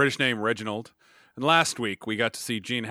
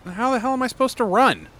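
whiny player; 11 semitones higher, 3 dB louder than usual. Acted. Player arguing with coach.

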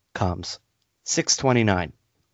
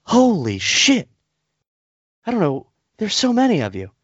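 mocking the clerk; 11 semitones higher than usual. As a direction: squawk it like a clueless clerk. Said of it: "she's like".

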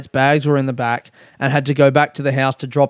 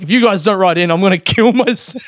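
mock threat; 4 semitones higher than usual. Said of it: "I'll say it, but I don't mean it".

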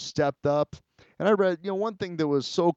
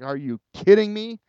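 loud, high-pitched incredulous outburst; stunned disbelief; 7 semitones higher, 6 dB louder than usual. Retold or imitated. Retelling meeting his old friend again, loud, high-pitched disbelief. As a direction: blurt it out like you can't believe your luck. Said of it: "And I was like".

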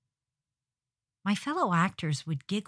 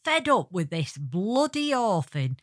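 hammed-up British crone at the end of her patience; old British woman; 2 semitones higher, 5 dB louder than usual. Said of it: "I played an old British woman".

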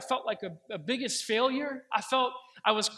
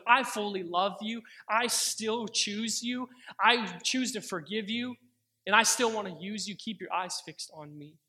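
tender reassurance. Retold or imitated. Voicing God's loving response.

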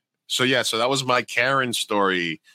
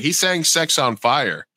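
drawn-out, higher-pitched protest; put-on customer complaint, slow and higher; indignant complaint; 4 semitones higher, 3 dB louder, slower than usual. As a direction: imitate an indignant customer, dragging the words out. Acted complaint from an annoyed customer.

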